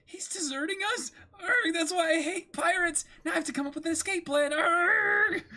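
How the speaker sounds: put-on high, fast, laughing panic as a young thief; high panicked girl voice.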